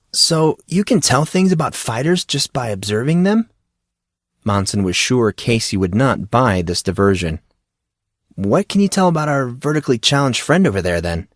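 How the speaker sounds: a hint of an eager, clueless friend; curious young Monson. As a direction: ask it like a naive newcomer. Monson diverts the question.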